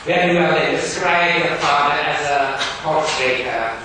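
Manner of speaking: loud, high, stern schoolmaster. Acted. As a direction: bark it like a strict Victorian teacher. Gradgrind voiced in reading.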